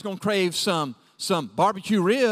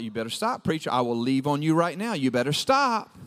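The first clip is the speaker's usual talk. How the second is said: low-pitched mock threat from the pews; mock-warning congregant; 8 semitones lower than usual. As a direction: warn the preacher off in a low voice. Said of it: "Y'all like".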